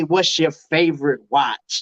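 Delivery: slow deliberate question. Shown as a demonstration. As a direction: ask it slowly, weighing every word. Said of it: "how can you say".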